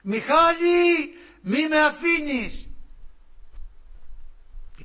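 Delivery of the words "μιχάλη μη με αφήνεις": high, slow crying plea, much louder; tearful plea. Retold or imitated. A loved one begs Michalis not to leave her, crying high. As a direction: beg him not to leave you, in tears. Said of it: "μία φωνή πάρα πολύ γνωστή".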